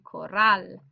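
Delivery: "corral" with the weight on "rral"; stress on last syllable. Shown as a demonstration. Teacher giving another example, "corral" stressed on last syllable. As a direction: push the final syllable of "corral". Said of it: "You can hear the stress is here".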